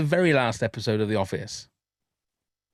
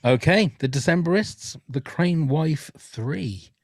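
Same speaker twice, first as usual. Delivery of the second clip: slow DJ song intro; radio DJ voice; 3 semitones higher, slower than usual. Shown as a demonstration. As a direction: announce it like a radio DJ. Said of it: "I sounded like an actual radio D J then".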